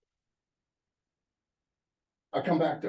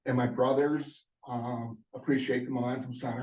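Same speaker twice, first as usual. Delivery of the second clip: shaky, nervous voice; stage fright. Real, not acted. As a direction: voice trembling with nerves. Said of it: "I'm sorry I'm shaking so much".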